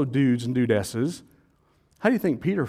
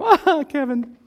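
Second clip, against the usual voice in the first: mock exasperation; 12 semitones higher, 5 dB louder, slower than usual. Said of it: "you'll go".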